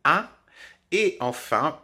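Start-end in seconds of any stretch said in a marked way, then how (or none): 0.1-0.3 un par le nez; son isolé. Shown as a demonstration. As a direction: voyelle nasale un. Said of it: "qui vient du nez". (un bien nasal)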